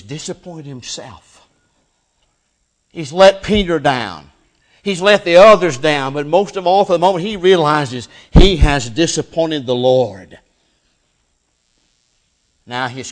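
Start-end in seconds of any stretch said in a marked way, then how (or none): 2.9-10.4 forceful preaching. Real, not acted.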